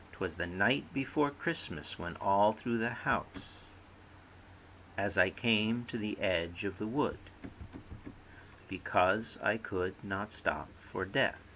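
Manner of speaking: slow verse with marked rhythm on "night", "edge" and "death"; metrical reading. Shown as a demonstration. Lecturer demonstrating poetic rhythms, slow metrical recitation. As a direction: recite "'Twas the night" and each line slowly, beat by beat. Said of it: "organizes stress into patterns to create".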